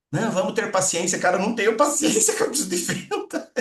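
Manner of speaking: laughing mock protest; mock impatient boss. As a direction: play the impatient boss and crack up. Voices impatient company, breaking into laughter.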